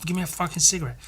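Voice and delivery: retold angry accusation, words tumbling out; aggressively angry. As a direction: imitate someone aggressively demanding and accusing. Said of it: "she was, like, aggressively angry".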